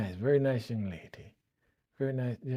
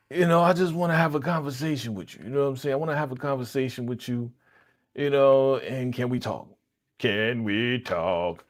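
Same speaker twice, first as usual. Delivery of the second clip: mimicking him; 2 semitones higher than usual. Man on the show mimicked asking to just talk. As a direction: imitate a guy sweet-talking a girl. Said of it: "That your man was like".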